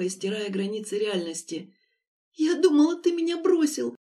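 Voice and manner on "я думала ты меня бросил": higher, louder tearful plea; desperate moan. A narrator's reading. Lera to Denis, moaning with desperate relief. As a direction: let the hurt pour out. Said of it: "отчаянно простонала Лера".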